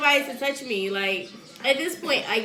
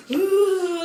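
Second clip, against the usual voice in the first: high mock "ooh" of pain; pained moan; 6 semitones higher than usual. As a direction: moan through a hammed-up contraction. Acting out labor pain hitting.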